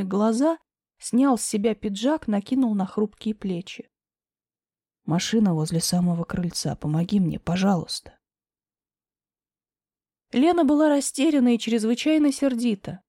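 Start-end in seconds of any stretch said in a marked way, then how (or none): 5.1-8.2 low male voice. Acted. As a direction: lower pleading man's voice. Grisha pleads low.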